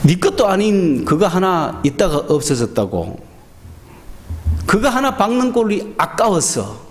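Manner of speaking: a father gently reasoning with a sulking son; sincere rebuke. Retold or imitated. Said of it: "진실되게 이야기하죠".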